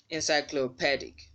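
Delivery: "Encyclopedic" as "en-sy-clo-PED-ik"; short "eh" in stressed "PED" of "Encyclopedic"; short-E pronunciation. Shown as a demonstration. Teacher modelling the stressed vowel, short-E pronunciation. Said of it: "the letter E will sound as E".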